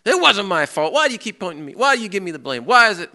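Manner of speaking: hammed-up protest against being blamed; unloading on the boss. Worker retelling how they snap at the boss, mock outburst. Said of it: "you unload on them".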